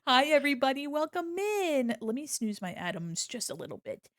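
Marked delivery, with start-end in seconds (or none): 0.1-1.9 sing-song stream welcome; bright welcome. Real, not acted. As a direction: welcome the newcomers warmly. Greeting raiders.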